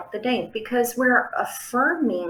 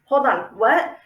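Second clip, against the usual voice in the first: puzzled brain; 5 dB louder than usual. Retold or imitated. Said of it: "it lets our brains go".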